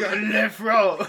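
Scottish attempt slipping toward French, laughing; mock Scottish with a French tinge; bad Scottish. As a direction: have a playful go at a bad Scottish accent. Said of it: "that's my Scottish".

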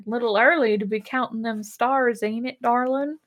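lightly put-on Texan accent. Bones talking to Layla, light mock Texan accent. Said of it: "in his weird Texan accent".

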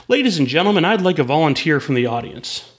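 lightly hammed-up microphone announcement; clown announcer. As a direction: announce it to the crowd like a circus clown. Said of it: "grabs a microphone".

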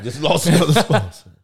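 laughing through the words. Real, not acted. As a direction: say it while cracking up. Echoing the joke, laughing.

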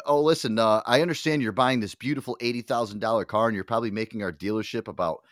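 mock polite manager. Mock manager telling off customer.

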